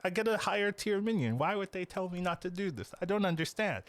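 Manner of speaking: high-pitched puzzled complaint; mock bewilderment. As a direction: protest like a baffled player questioning advice. Voicing a puzzled streamer questioning chat.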